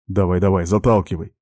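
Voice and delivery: usual speaking voice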